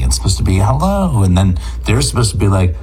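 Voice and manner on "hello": lifted, friendly phone hello; friendly greeting. Shown as a demonstration. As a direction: answer the phone politely and welcomingly. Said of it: "You're supposed to be friendly".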